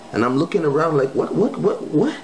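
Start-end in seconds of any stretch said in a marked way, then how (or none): 1.2-2.2 much higher, rising frantic what what what; panicked. Retold or imitated. Not knowing what she meant, a high, rising alarmed stammer. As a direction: look around in alarm and climb in pitch.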